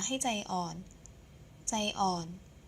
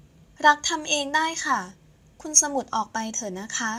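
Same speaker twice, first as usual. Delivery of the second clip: pleading; 5 semitones higher than usual. Acted. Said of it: "คำพูดนั้นวิงวอนเสียเหลือเกิน".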